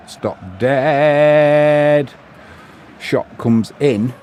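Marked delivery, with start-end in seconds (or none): 0.1-2.1 excited call. Real, not acted. Commentator calls a keeper stop.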